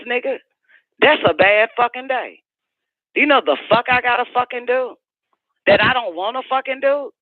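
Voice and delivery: high, fast indignant venting; heated rant. Real, not acted. Ranting to the caller about her own worst days, high and indignant. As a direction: spit out the disgust at him.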